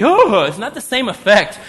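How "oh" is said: startled gasp after "suddenly"; dramatic gasp. Shown as a demonstration. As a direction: gasp like a movie shock. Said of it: "Do you ever go".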